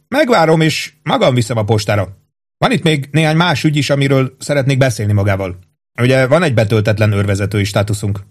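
a hint of a hearty captain; captain Holmes voice. Captain praising his old cook, lightly hearty.

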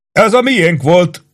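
slow, high-pitched dismay; helpless, drawn-out realization. A narrator's reading. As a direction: say it at a loss. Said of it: "mondta gyámolatlanul Reddit Reedwell".

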